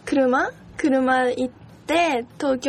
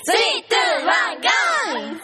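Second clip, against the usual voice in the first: countdown shout; 4 semitones higher than usual. Shown as a demonstration. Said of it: "金星さんの歌ここでも歌っといたら".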